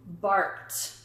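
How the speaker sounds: Barked said with a crisp final t; Barked with a clear t release; t ending demo. Shown as a demonstration. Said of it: "I hear me saying t".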